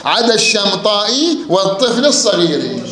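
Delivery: "الشمطائي والطفل الصغير" recited slowly with i endings; kasra endings in verse. Shown as a demonstration. Teacher reciting the half-verse, "الصغير" drawn out on an i. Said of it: "أي مكسورة".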